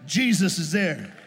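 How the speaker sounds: slow, loud proclaiming shout; preaching shout. Real, not acted. Preacher shouting to the church, full-voiced proclamation. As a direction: cry it out to the congregation.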